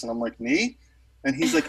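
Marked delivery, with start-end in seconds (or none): 0.4-0.8 retold nervous squeak of surprise, pitched up; flustered. Telling how he answered a musician, flustered. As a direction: act out a mildly flustered reply. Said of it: "I got really flustered and nervous".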